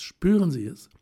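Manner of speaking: rapturous call. A narrator's reading. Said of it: "atmete tief und rief".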